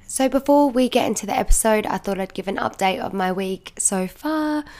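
hoarse, croaky sick voice. Real, not acted. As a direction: speak through a croaky throat. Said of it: "you can tell by my croaky voice".

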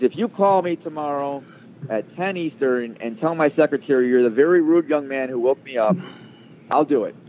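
a hint of a gruff boss; imitating a bossy offer.

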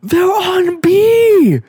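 very high, slow, drawn-out shout; hammed-up foreign fighter's cry; broken-English soldier impression. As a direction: yell a mock game callout, stretching each word. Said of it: "it has to be broken English".

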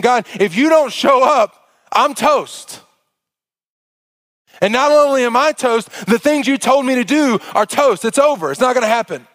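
broken, desperate plea. Acted. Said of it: "a true state of brokenness".

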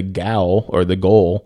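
gaol read out slowly to sound like "goal"; mispronouncing gaol. Real, not acted. Reader guessing at an old word for jail, mispronouncing gaol. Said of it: "It's pronounced jail".

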